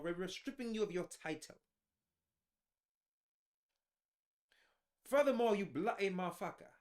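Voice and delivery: stern royal father in a put-on British accent. Royal father dismissing the prince over his wife, mock British accent. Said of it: "let me get my British accent".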